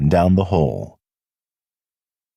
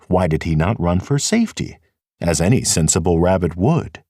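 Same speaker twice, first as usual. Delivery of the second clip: ordinary delivery, nothing marked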